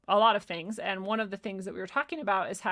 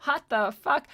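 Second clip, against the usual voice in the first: sudden loud burst of startled whoa; startled surprise; 6 semitones higher, 9 dB louder, slower than usual. Retold or imitated. Startled by a filthy word while blessing her water, loud shocked whoa. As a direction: jolt back in shock at the water. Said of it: "And I'm like".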